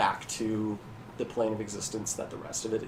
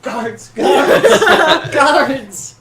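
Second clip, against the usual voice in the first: building, high-pitched full yell; frantic acted shouting; shouting for guards; 16 dB louder, much slower than usual. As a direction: scream for the guards, louder each time. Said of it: "he starts shouting for".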